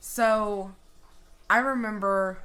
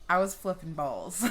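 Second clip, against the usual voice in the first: laughing through the words; a real laugh breaking out; 4 dB louder than usual. Real, not acted. Laughing as she recalls freaking out. Laughing while telling scary story.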